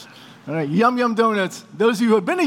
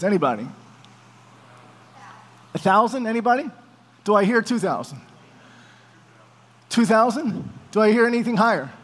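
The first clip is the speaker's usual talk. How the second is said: brisk mock auctioneer calling bids; faster than usual. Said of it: "I feel like an auctioneer".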